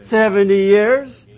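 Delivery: loud, slow and emphatic; booming answer. Real, not acted. Teacher booming the answer to his class, loud and slow. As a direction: hit it hard for the class.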